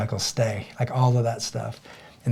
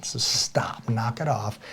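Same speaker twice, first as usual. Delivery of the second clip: whispered; 5 dB quieter, much slower than usual. Real, not acted. Quiet firm aside.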